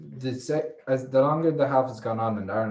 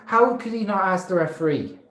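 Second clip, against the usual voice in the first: loud, higher-pitched protest; incredulous; 7 semitones higher, 3 dB louder than usual. Real, not acted. Fan protesting that play was ended, incredulous. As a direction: raise the voice in real disbelief. Disputing the referee's whistle.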